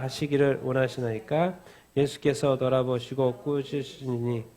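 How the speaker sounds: slow, measured Bible reading; solemn congregational scripture reading. Acted. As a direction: read the passage out formally, word by word. Reads the scripture aloud.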